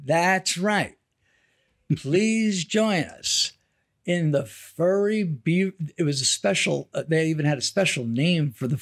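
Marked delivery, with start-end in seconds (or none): 0.0-5.7 slow, drawn-out hawker's invitation; lightly voiced barker luring customers; carnival barker. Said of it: "carnival barker voice".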